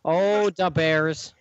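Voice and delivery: drawn-out mock Midwestern vowels; mock Midwest accent. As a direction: lightly parody a slow Midwest accent. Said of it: "Sounds like you're Chris Farley".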